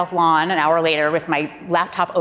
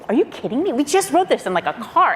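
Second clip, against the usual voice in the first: much higher, amazed disbelief; incredulous; 8 semitones higher than usual. Retold or imitated. Watching the president deliver the speech, higher in amazed disbelief. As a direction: pitch up in astonished disbelief.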